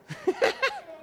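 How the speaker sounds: sudden high burst of laughter; short high laugh. Real, not acted. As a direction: laugh at your own slip. Laughs at own reading slip.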